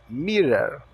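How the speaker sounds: "mirror" ending in an "ar" sound. Shown as a demonstration. Teacher modelling the word for learners, "mirror" with O as A. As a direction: say "mirror" as "mirar", O like A. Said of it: "O O tem o som de A".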